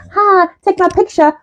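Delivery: high, slow silly greeting; mock posing tourist. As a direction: draw it out like a naive poser. Mocks tourist posing with shark.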